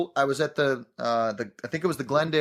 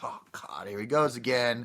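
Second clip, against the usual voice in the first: exasperated groan; 3 semitones lower, 5 dB quieter than usual. Retold or imitated. Crew groaning at missed mark.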